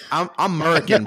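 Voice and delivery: "American" said as "'Merican", first A dropped; American without the A. Pretend. Host defending his pronunciation to co-host, "American" clipped to "'Merican". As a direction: drop the opening A of "American", saying "Murican". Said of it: "Drop the A".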